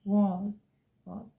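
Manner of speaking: "was" with short British o, slowed. Shown as a demonstration. Teacher showing British pronunciation, British was. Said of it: "was in British".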